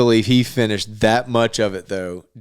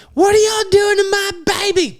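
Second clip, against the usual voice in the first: put-on much higher, shouted old-lady squawk; mock shrieking grandma. Grandma on the phone yelling about her baby, high shriek.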